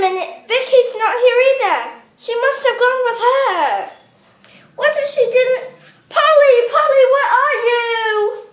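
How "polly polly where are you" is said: calling out. Acted. Calling for lost sister.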